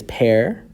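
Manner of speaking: "pair" drawn out with a rising lift; emphatic syllable. Shown as a demonstration. Teacher contrasting it with the weaker syllable, emphatic syllable. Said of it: "not said as emphatically as".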